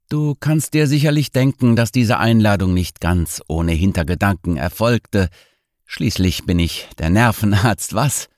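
a hint of a tipsy, teasing host; tipsy nerve doctor. Voices drunk doctor friend.

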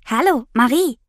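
happy squeal. Acted. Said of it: "quietscht sie freudig".

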